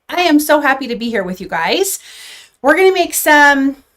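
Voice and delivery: breathless from rushing around; out of breath. Real, not acted. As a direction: talk while still out of breath. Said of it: "so I'm out of breath".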